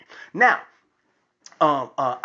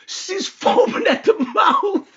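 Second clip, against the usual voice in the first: worked-up description; 11 semitones higher, 4 dB louder than usual. Real, not acted. Excited retelling of daughter's rage.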